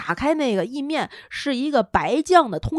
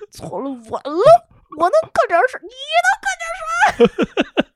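higher, indignant retort; 5 dB louder than usual. Retold or imitated. Wife mentally retorting to husband, indignant. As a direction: throw his words back at him. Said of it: "我心说".

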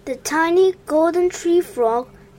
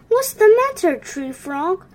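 kindly; 6 semitones higher, 5 dB louder than usual. A narrator's reading. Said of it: "Moon asked kindly".

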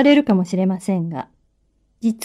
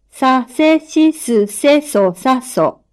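dictating; slower than usual. Shown as a demonstration. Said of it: "発音を聞いて".

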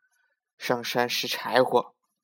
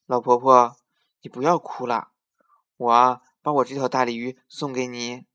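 put-on little girl voice; 6 dB louder than usual. Girl offers carp.

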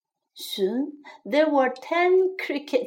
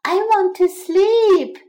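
high, loud fed-up plea; shouting; 7 semitones higher, 7 dB louder than usual. A narrator's reading. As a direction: shout it with pitch right up. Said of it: "shouted the mouse".

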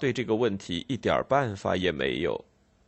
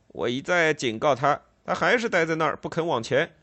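cold; 4 semitones higher than usual. Acted. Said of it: "巡警冷冷地说".

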